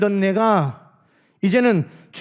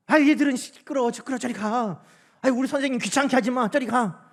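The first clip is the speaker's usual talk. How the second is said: put-on disciples shooing kids; 4 semitones higher than usual. Disciples shooing children away.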